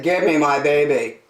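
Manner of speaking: firm, emphatic fish voice; demanding big fish. Acted. Big fish demands baby back.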